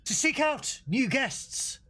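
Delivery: slow, high, hammed-up announcer; dramatic announcer voice. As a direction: intone it like an epic opening. Star Trek intro parody.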